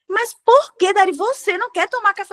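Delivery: pushy mother. Retold or imitated. Mom begging Dari to take coffee, high mock plea. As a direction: push like a nagging mom, pitched high.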